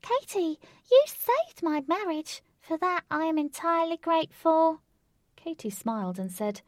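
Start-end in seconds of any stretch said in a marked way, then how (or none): 0.0-4.8 high rabbit voice with mouth full. Acted. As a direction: talk between bites of carrot. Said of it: "Between bites, he said".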